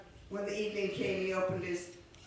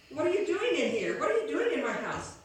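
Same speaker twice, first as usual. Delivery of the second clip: startled; 5 semitones higher, 4 dB louder than usual. Acted. Martin startled by man inside.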